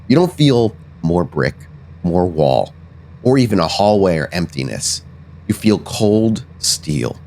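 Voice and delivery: deliberate, descriptive storytelling; game master narration. Acted. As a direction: draw out the discovery piece by piece.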